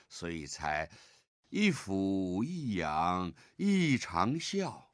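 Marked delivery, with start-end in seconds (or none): 1.5-4.8 slow, with a break after 一俯一仰; pause before 一长啸. Shown as a demonstration. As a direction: say 一俯一仰, stop, then 一长啸. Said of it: "一俯一仰” 后面要停一下". (在“一俯一仰”后停顿)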